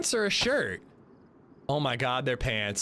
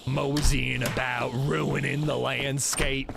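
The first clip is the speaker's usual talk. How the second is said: put-on folksy old-timer hillbilly grumble; 3 semitones lower than usual. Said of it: "the most hillbilly I can do".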